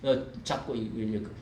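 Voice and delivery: ordinary talk, nothing marked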